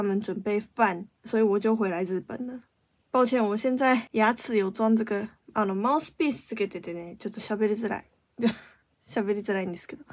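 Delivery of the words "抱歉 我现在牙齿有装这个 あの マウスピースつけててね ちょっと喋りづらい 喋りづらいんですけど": talking around a mouthguard; slightly muffled by a mouthpiece; wearing a mouthguard. Real, not acted.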